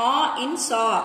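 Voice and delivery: "awe" with the open vowel of saw; sound comparison. Shown as a demonstration. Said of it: "pronounced together like". (saw లోని "awe" శబ్దాన్ని చూపడం)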